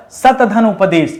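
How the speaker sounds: सत धन उपदेश said slowly, each part separate; slow breakdown. Shown as a demonstration. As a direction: slowly split सत, धन, उपदेश apart. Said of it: "किससे बना दोस्तों". (सत धन उपदेश धीरे-धीरे, हर हिस्सा अलग)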